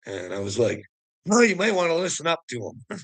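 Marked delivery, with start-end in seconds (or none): 1.2-3.0 a little excited. Retold or imitated. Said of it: "I got a little excited".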